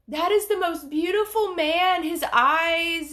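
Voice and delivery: high, gushing mock-tearful voice; imitated starstruck mom. Mom gushing over the singer, imitated starstruck crying. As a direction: imitate an overwhelmed mother swooning, pitched high. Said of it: "she started crying, and she was like".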